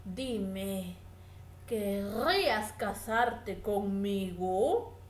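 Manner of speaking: low, slow courting cat; a hint of a charming cat, low and unhurried. The cat flatters and proposes to the mouse, slow and low. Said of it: "Hola, señor gato".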